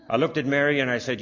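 usual speaking voice

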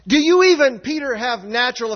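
high and loud, pressing the question hard; forceful challenge. Acted. Pastor voicing Jesus pressing Peter, loud and challenging. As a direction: demand it of him with force.

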